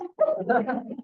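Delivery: short amused laugh. Real, not acted. Board president amused by negotiating tiny garden leases, laughing. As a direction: let a real chuckle break out. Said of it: "I'm laughing because".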